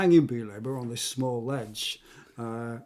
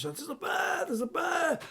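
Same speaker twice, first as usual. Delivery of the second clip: much higher, at ordinary volume; high-pitched imitation of a bear alert; mock alarm cry. Acted cries as bear appears.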